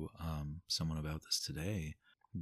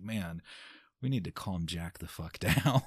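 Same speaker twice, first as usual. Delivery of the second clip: laughing; 5 dB louder than usual. Retold or imitated. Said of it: "but I'd be like".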